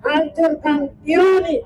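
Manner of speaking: shouted rally cry. Real, not acted. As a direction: call out to rouse the crowd. Rally call and response.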